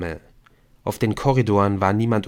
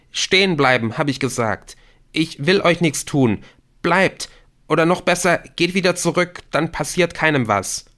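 high, louder, agitated command; trembling voice; 7 semitones higher, 4 dB louder than usual. A narrator's reading. Rashid threatens intruders with pepper spray, trembling. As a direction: order them back while losing your nerve. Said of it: "Die Hand zitterte, Rashids Stimme auch".

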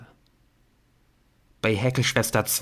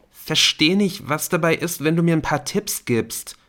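higher, wheedling plea; pleading; 7 semitones higher than usual. A narrator's reading. Colin pleading with Dan for tips, voice lifted. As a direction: beg for help, a bit higher.

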